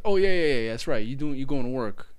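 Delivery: dopey dawning agreement; mock stoner realization. Imitating the driver remembering the teller's job, loud dopey voice. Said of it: "And then he goes".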